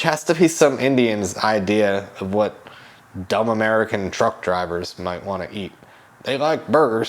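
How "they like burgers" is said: lightly imitated Indian accent; a hint of a put-on Indian accent. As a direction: slip into a mild mock Indian accent. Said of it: "I'm giving him that accent".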